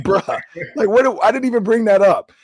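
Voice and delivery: mock indignant what-do-you-mean; exasperated disbelief. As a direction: act baffled at being accused. Retelling text reply to coach.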